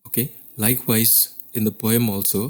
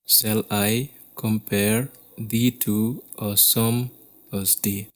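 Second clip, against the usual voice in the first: slow scansion, "Shall I / compare / thee to / a sum / as day" in five feet; measured two-beat chunks through "Shall I compare thee to a sum as day"; scanning into feet; slower than usual. Shown as a demonstration. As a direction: read the verse slowly, pausing after each pair of syllables. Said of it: "let's scan the first line".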